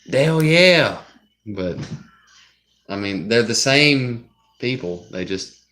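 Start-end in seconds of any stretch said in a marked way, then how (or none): 0.1-1.0 higher, louder whooped drawn-out yell; Mississippi redneck cheer. Retold or imitated. Mississippi noodler pulling out a huge catfish, redneck whoop. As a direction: holler it like a triumphant catfish noodler. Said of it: "if you were in Mississippi".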